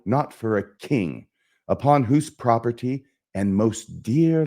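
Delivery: measured stage declamation; Hamlet. Acted. Hamlet reproaching himself as a dull rascal, measured and theatrical. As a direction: weigh each phrase like a Shakespearean actor. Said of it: "try and just perform the soliloquy here".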